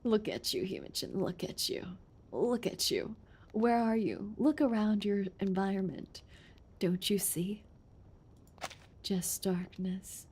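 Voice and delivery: soft, low creepy whisper-like voice; quiet spooky taunting from the dark; eerie soft taunt. Acted.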